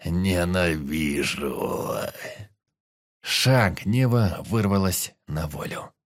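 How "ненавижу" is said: very slow, lower monstrous growl of hate; monster voice. Acted. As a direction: drag it out like a beast. The monster of rage speaks.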